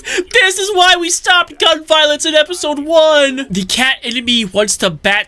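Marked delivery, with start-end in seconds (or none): 0.0-3.5 panicked pleading. Acted. Pleading over guns.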